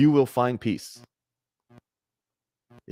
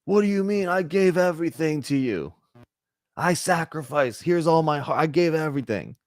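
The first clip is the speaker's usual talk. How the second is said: hurt protest; 5 semitones higher than usual. Retold or imitated. Wounded lover protests in story.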